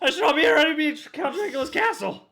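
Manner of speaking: high, loud, eager proclamation; overjoyed hammy declaration; mock enthusiasm. Mock enthusiastic movie line.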